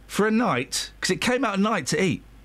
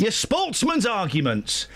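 mocking echo; 4 semitones higher, much slower than usual. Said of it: "And that's your problem with your sportsman's arguments".

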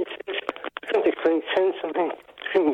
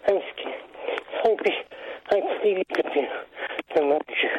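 halting, broken phrases with long gaps; real, anxious, hard-to-follow speech; labored Parkinson's speech. Real, not acted. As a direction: struggle to get each word out. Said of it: "your Parkinson's sounds like it's going double time today".

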